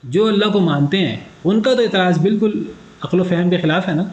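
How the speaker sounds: broken, dropping connection audio; tape dropouts. Real, not acted. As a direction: voice cutting in and out. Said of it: "وہ آپ کی آواز کٹ گئی تھی".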